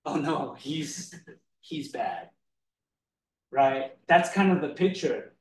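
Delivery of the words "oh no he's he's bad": dropping low and soft into mock dismay; a hint of teasing disappointment. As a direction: sink the voice on "bad". Playful voicing of God.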